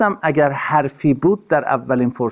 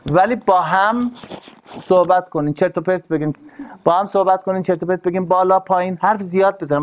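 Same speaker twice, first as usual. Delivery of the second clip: emphatic urging; 5 semitones higher than usual. Real, not acted. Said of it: "urging couples to talk".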